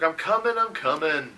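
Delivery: high-pitched "on my way" call; harried innkeeper. Acted. Shimasu answers that help is on the way, harried call. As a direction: answer a summons in character.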